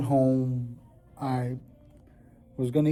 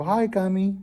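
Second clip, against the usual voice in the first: put-on pitched-up hello to a child; higher voice for greeting a little one; cheery greeting; 7 semitones higher than usual. Dad greeting his youngest on FaceTime, cheery and high.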